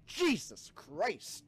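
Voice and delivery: high shocked yell, then drawn out; startled shout stretching into slow disbelief; scared outburst. Real, not acted. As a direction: cry out as a scare hits. That was legitimately scary.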